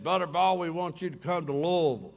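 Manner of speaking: Louisville said as "Lovel"; imitating a suited man, Louisville said "Lovel"; local Louisville. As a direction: slur Louisville into two syllables, Lovel. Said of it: "He didn't say Louisville".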